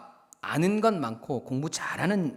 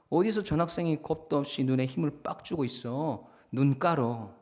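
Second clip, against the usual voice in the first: intended intimidation. Acted. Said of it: "처음에는 이런 마음이었어요".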